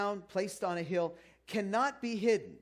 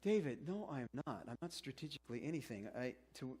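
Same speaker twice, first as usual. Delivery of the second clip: mock objection; 5 semitones lower, 8 dB quieter than usual. Mock listener objecting to pastor.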